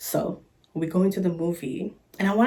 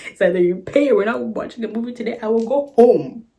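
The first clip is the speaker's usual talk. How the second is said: louder, fast then emphatic ultimatum; acted ultimatum; 2 semitones higher, 5 dB louder than usual. Storyteller retells warning her date who won't pay, emphatic ultimatum. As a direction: lay it down, building louder to the end.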